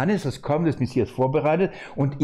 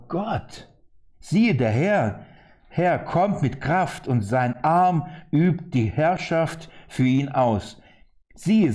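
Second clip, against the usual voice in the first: slow, measured scripture reading; slower than usual. Acted. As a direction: read the prophecy slowly aloud. Reads Isaiah aloud to congregation.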